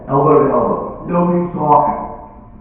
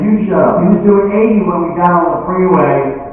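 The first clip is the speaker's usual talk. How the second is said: high, heated comeback; quarrelling spouse; 6 semitones higher, 3 dB louder than usual. Acted. Husband and wife arguing at a traffic stop, mock angry. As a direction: fire it back in mock anger.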